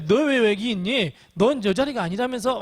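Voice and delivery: mildly reproachful acted rebuke; mock reproach. Preacher voices God possibly scolding Elijah, mildly reproachful. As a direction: lightly take someone to task, in imagined words. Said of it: "책망하실 수도 있어요".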